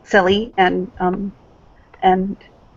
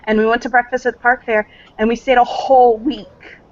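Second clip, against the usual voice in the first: eager daughter; 4 semitones higher, 3 dB louder than usual. Acted. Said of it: "And she'll say".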